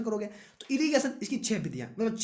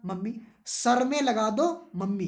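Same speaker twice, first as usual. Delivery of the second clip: put-on pleading child; slower than usual. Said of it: "तुमने mummy से क्या कहा".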